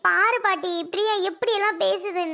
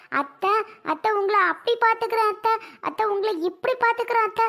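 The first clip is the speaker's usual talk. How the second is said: higher, syrupy fake-sweet imitation; mock sweet daughter-in-law; 4 semitones higher than usual. Angry sister-in-law mocks the wife's fake sweet promises to her mother, in a sugary imitation. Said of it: "எப்படி வந்து நடிச்ச".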